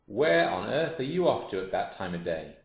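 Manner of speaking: lightly voiced, nosy hippo; inquisitive hippopotamus. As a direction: quiz the crocodile with animated surprise.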